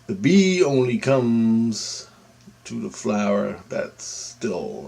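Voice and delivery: slow, hushed proverb, each word placed; slow wise saying. Retold or imitated. Friend's advice retold, slow and hushed. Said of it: "he goes, he goes".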